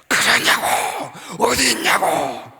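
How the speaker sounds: shouting down the phone in disbelief; retold shout. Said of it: "거기서 고함을 지르는 거야". (전화기 너머로 놀라서 외치는 선생님의 고함)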